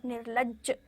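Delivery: निर्लज्ज with the ज doubled and pressed; निर्लज्ज said clearly, ज्ज held a little; doubled j sound. Shown as a demonstration. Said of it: "जब उस पर भार पड़ रहा था".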